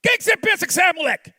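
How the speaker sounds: high, loud angry scolding; parent scolding son. Acted. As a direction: tell off a cheeky boy. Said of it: "o que você faz com seu filho". (pai bronqueando o filho)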